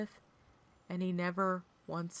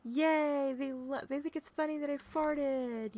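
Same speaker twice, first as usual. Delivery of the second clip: happy dog voice; 7 semitones higher than usual. Pretend. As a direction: voice the proud, bouncing dog. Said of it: "was just jumping around like".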